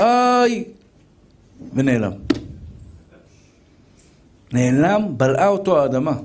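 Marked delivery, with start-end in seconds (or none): 0.0-0.6 retold alarmed yell, lightly acted; mock scream. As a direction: yelp like a man suddenly falling. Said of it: "שמעה אותו צועק".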